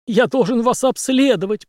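yelling doctor. A narrator's reading. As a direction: keep shrieking his demand. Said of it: "продолжал вопить очкарик". (очкарик вопит, выше и громче)

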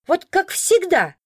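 lightly voiced old woman chiming in; a hint of grumbling granny; elderly woman agreeing. A narrator's reading. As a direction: chime in like a disgruntled old lady. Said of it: "поддакнула другая, судя по голосу, пожилая".

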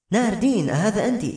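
put-on high, eager recognition of an old friend; light up at hearing her name; excited. The blind queen greets the old woman Nardin, thrilled. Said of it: "تقول بحماس".

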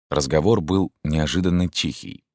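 ordinary delivery, nothing marked

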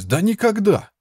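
very high outraged yell; shouting denial. A narrator's reading. Boy refusing the monk's claim, high outraged yell. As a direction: shout it down flat. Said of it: "опять закричал Фриц".

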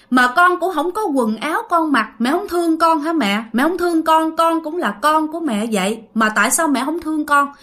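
pleading complaint to a mother, retold; reproachful. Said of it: "nói với lại một cái giọng khác và trách móc".

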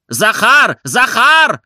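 loud, high, urgent call for the servant; hurried shout. A narrator's reading. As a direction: yell his name from the next room. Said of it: "торопливый крик". (торопливый громкий крик барина)

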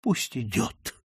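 understated hopeless resignation; subdued, mild despair. Acted. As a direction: give up and let it go. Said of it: "сказал Дик с отчаянием".

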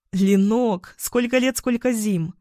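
put-on happy, lifted greeting to an old friend; delighted greeting. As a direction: greet her with real joy. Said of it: "обрадовалась я". (радостное приветствие)

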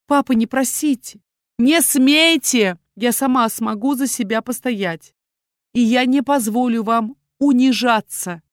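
loud, high, defiant protest; defiant cry. A narrator's reading. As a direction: shout him down, proud and stubborn. Daughter defies the duke.

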